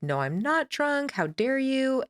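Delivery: high, slow, indignant protest; a hammed-up how-dare-you, high and slow; mock belligerent denial. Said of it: "I was belligerent about it".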